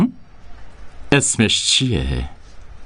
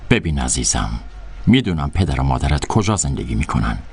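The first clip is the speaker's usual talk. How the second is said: lower, coaxing honeyed tone; sweetly menacing; 4 semitones lower than usual. Acted. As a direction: purr the threat gently. Madam soft veiled threat.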